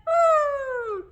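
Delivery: very high, long hooted trumpet call; elephant trumpet. Shown as a demonstration. Teacher showing elephants trumpeting, high hooting call. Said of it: "hear the elephants trumping".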